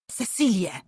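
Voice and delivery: loud high yell of her name. A narrator's reading. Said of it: "wrzasnął jej mąż". (wykrzyczane imię)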